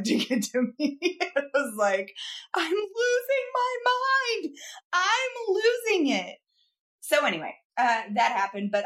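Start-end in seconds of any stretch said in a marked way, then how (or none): 2.6-6.4 very high, drawn-out mock wail; hammed-up frantic wail. Podcaster retelling camera mix-up to co-host, hammed-up frantic wail. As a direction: stretch it out high, as if cracking up.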